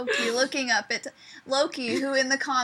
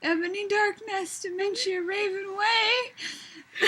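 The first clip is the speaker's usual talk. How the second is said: slow, drawn-out mock-gothic name; milk the edgy name for laughs; mock dramatic naming; 6 semitones higher, slower than usual. Teasing the fanfic's edgy heroine, slow mock drama.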